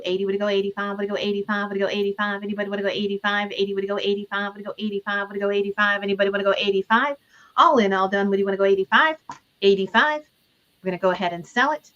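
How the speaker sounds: lightly chanted bid calling; auctioneer. Acted. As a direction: call out bids like an auctioneer.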